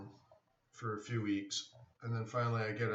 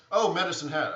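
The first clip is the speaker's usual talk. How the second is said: surprised; 7 semitones higher, 10 dB louder, faster than usual. Real, not acted. Noticing a viewer's location.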